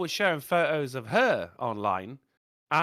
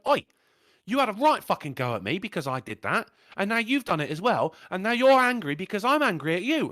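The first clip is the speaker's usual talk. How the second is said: rising, louder retold rant; angry retort; 3 dB louder than usual. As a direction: build up the anger as he tells her off. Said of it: "and I went".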